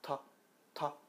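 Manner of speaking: 터 with firm release; 터 with the tongue snapping off; 터 forceful; strong Korean t. Shown as a demonstration. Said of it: "붙었다가 터".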